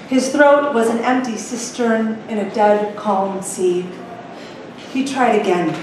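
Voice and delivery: measured storytelling read aloud; unhurried author reading her own book; story narration. A narrator's reading. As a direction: read it like the opening of a novel.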